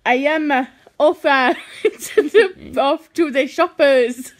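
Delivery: attempted Jamaican accent. Struggling through an accent challenge, attempted Jamaican accent. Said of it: "I can't do it in Jamaican".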